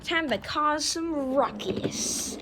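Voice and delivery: soft, scheming mad scientist. Acted. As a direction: plot the mischief quietly. Villain train plots.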